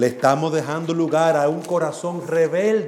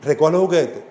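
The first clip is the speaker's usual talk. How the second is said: calm, even order; same calm tone. Shown as a demonstration. Parent telling a child to pick up toys in a calm voice. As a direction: say it evenly without anger. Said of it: "a ese mismo tono".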